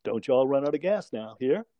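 put-on friend teasing him in a mild Southern accent. Generous friend handing over car keys, lightly imitated Southern accent. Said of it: "in his southern accent".

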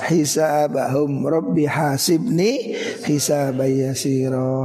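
slow, chanted verses; Quran recitation. Acted. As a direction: recite slowly, prayerful.

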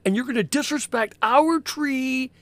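loud, high Brooklyn tough-guy elf scolding; a Brooklyn wiseguy elf telling off a trespasser. Acted. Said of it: "I've always loved the idea of elves sounding like they're from Brooklyn".

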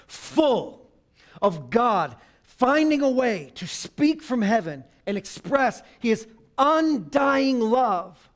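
slow, swelling sermon cadence; rising preaching. Real, not acted. Pastor urging couples toward God's love, slow and swelling. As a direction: draw each phrase out and build.

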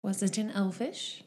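soft in-character question; lightly voiced seamstress. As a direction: ask softly as the seamstress.

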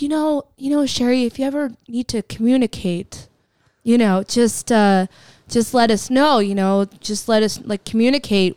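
corporate speak. Retold or imitated. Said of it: "doing it in corporate speak".

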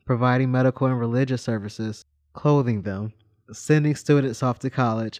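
steady informative reading voice; reading a bio. Acted. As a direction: read it like a short history segment. Reads a history bio aloud.

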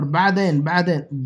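"بعدین" with a squeezed ayn after the b; ayn from the throat. Shown as a demonstration. Teacher drilling learners, throaty ayn in "بعدین". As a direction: press the throat on the first syllable of "بعدین". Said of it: "عین، حلق".

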